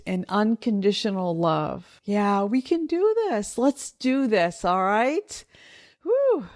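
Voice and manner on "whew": emotional exhale. Real, not acted. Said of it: "I'm getting a little emotional".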